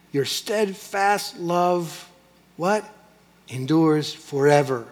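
slow drawn-out call and answer; call and response. Shown as a demonstration. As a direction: draw the congregation into the refrain, slowly.

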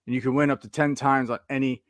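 upbeat sponsor read. Acted. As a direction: read the promo like a radio spot.

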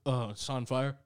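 put-on drunk friend's line. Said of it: "He goes".

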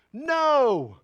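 ordinary talk

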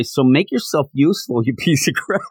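lightly voiced mock insult, laugh breaking in; retold insult. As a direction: quote the insult half-laughing. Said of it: "later on he does say".

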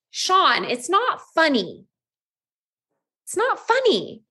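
rising alarm, voice climbing high; calling to the husband slumped over, growing scared; worried pleading turning high and panicked. Retold or imitated.

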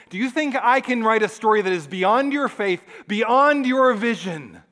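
rising preacher's intensity; impassioned challenge. Acted. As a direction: press the question home with force. God's challenge builds in sermon.

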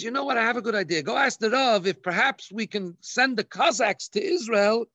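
rising bright, pleased delivery; clever wife's idea. Retold or imitated. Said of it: "she says".

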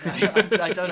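laughing. Real, not acted. Laughing at the joke.

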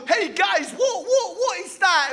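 lightly voiced curious world; curious outsider. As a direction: ask it like a confused onlooker. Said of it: "the world's, like, looking in going".

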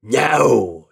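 loud, firm shout; shouted refusal. A narrator's reading. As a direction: shout the refusal as prince of hell. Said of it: "shouted the prince of hell".

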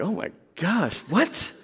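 startled half-laugh; shocked disbelief. Retold or imitated. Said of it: "You're like".

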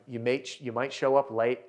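slight unintended Scottish accent on the line; accidental Scottish lilt. Real, not acted. Coach warning contractors about lateness, faint Scottish lilt. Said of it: "I just sounded Scottish for a second".

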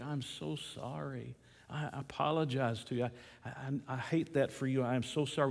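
mildly acted apology, opening softly; apologetic. Store manager to an insulted customer, mildly apologetic. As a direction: apologize earnestly, stumbling over the words a little. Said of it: "the manager was just so apologetic".

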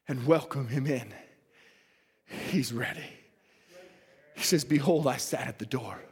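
low, softened preacher's appeal; gentle, low altar call; hushed appeal. Real, not acted. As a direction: drop low and soft, with long pauses.

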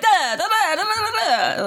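high, far nonsense gabble; exaggerated mock Italian chatter; mock Italian babble. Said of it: "'Cause they were like".

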